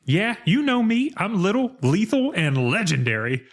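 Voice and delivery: high-pitched cartoon sidekick boast; Mushu. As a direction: brag in a playful, high imitation voice. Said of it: "And Mushu goes".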